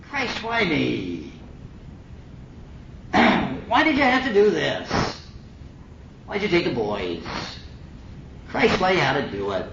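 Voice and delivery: slow anguished plea, mostly hushed, with long pauses; crying, retold. Man crying outside the hospital asks God why, anguished. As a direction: plead slowly as if reliving old grief. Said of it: "I remember crying".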